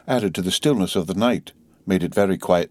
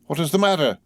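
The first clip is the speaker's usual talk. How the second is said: mildly quavering; 9 semitones higher than usual. Acted. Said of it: "with mildly quavering speech".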